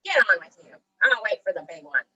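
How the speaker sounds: loud troll dismissal; lightly voiced gruff troll; troll's growl. A narrator's reading. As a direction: wave the goat on as a growly troll. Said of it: "growled the troll".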